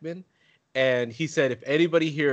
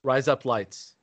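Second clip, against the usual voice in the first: said fast; slower than usual. Shown as a demonstration. Friend saying it fast to hear razor blades. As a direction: rush the words together. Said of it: "so say it fast".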